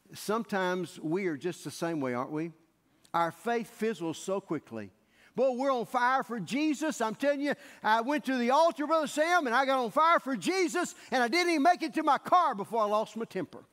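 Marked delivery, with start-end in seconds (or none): 5.4-13.6 a touch of louder eager zeal; mock fervor. A churchgoer tells Brother Sam of his zeal, mildly hammed-up fervor. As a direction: play the briefly fired-up believer. Preacher voicing a fired-up believer.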